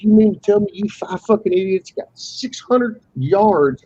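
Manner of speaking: retold angry outburst. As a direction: snap back at the guy who cut your line, half-acted. Retold confrontation with fishermen.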